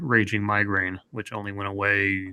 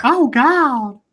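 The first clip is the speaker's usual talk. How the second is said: loud mock moan; 13 semitones higher, 8 dB louder than usual. Mocking moan joke.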